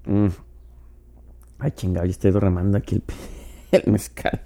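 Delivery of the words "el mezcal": laughing call. Real, not acted. Calling for absent co-host, laughing.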